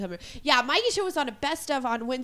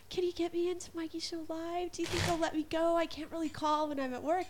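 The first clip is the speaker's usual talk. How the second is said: imitating mom; 5 semitones higher, 6 dB quieter than usual. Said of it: "she has been bugging me".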